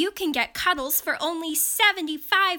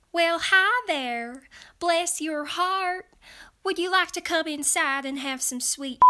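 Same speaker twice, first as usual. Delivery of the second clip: put-on Southern accent; 4 semitones higher than usual. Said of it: "accents I can portray authentically".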